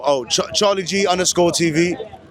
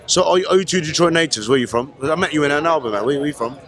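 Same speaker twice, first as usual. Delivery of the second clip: put-on London "All right then"; London accent. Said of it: "doing the accent".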